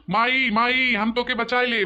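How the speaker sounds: director demonstrating the line; demo plea. Shown as a demonstration. Director demonstrates the plea for the heroine. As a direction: show the plea once, plainly. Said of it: "वैसे बोलेगा".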